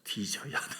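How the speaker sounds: low, soft Jeolla dialect. Shown as a demonstration. Preacher restating dying to self, in Jeolla dialect. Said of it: "전라도 말로".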